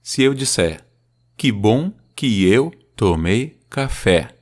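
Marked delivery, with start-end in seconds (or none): 1.4-4.3 "Que bom que eu tomei café" slow, weak then strong beats; slow iambic reading; iambic demo. Shown as a demonstration. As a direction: scan it into four feet. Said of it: "eu falei quatro pés".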